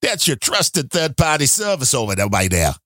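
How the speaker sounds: lightly voiced Chicago accent; a hint of a Chicago accent. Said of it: "you can only hear that in the Chicago accent".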